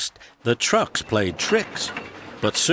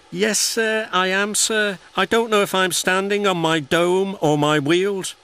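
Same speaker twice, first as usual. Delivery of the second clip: much higher, put-on small engine voice; a worn-out little engine answering politely; weary little engine; 11 semitones higher, 4 dB louder than usual. A narrator's reading. Tired Percy answers his boss.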